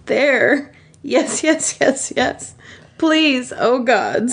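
high, breathless begging; pleading in pleasure. A narrator's reading. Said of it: "scream in pleasure".

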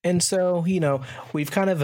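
throat catching on the words; speaking with something stuck in the throat; frog in throat. Real, not acted. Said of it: "kinda had something in my throat there".

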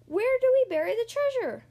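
high, loud captain's shout; loud pleading pirate question; hollering. A narrator's reading. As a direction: holler it over the storm. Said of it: "hollered Braidbeard".

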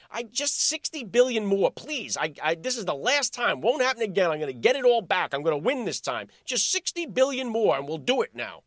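a hint of a gambler swearing it's the last time; begging gambler. Pundit mocking Zelensky as a gambler begging a friend, mild pleading. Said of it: "He sounds like a sick, degenerate gambler".

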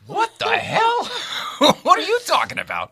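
hammed-up indignation at the kid; retold protest, shouted up high; mock outraged shout. Speaker retells his outraged reply.

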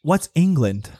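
British-sounding villager. Acted. Farmer has never heard of England, British-accented and baffled. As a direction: ask blankly in a British rustic accent. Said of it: "Your accent is, like, British".

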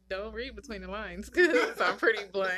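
amused pushback with laughter in it; laughing rebuttal. Real, not acted. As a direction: talk through a light laugh. Co-host laughs while rebutting him.

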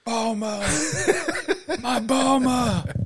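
high, slow anguished cry of Bulma; Vegeta shout. Retold or imitated. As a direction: wail her name like an anime hero. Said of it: "remember when Vegeta was like".

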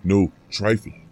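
roared, loud and fierce; roaring. A narrator's reading. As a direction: roar it like a fiend. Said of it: "roared the fiend".

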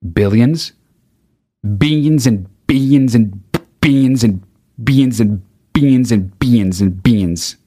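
Trump saying billions. Retold or imitated. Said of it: "the other word he says that I fucking love".

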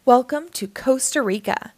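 announcing. A narrator's reading. Santa announces Costa Rica to the children, mildly grand. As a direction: announce the place like a tour host. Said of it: "announced Santa".

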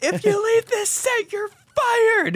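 high, loud tirade; mock furious threat. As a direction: play an irate film director, hammed up. Director threatens to fire him.

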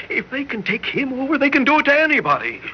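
spiralling into frantic fear; rising panic. Acted. Husband panics about alien invasion.

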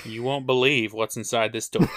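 laughing hyped-up teaser shout; clickbait video narrator. Pretend. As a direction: yell it like a clickbait thumbnail. Clickbait headline parody.

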